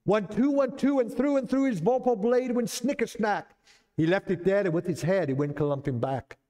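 put-on dramatic Jabberwocky recital in a Scottish accent, rising high on the battle lines. Reciting the poem to show the class, in a Scottish accent. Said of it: "So I'm gonna do it in a Scottish accent".

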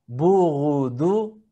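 slow burudu with throaty r; ghain with u. Shown as a demonstration. Teacher demonstrating ghain slowly. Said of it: "con la vocal U".

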